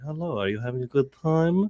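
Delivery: mock mayor welcoming guests; hammed-up host greeting party guests. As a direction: play the genial host. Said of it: "I was like".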